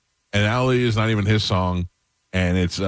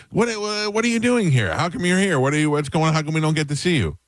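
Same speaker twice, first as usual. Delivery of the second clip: high, excited disbelief; overjoyed and amazed; surprised; 5 semitones higher than usual. Real, not acted. Host surprised by guest visit.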